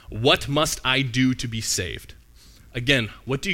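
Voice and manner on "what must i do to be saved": a slow, deliberate scripture read; slow emphatic reading. Shown as a demonstration. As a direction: read slowly, weighing each word. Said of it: "See the highlighted part?".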